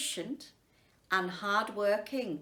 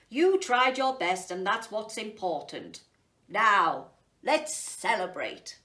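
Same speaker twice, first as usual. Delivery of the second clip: kind emperor; 3 semitones lower, 5 dB louder than usual. Acted. Emperor comforts cat.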